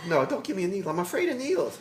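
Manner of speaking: high, loud hammed-up pleading; mock fear. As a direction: beg like a scared patient. Pretending to fear the needle.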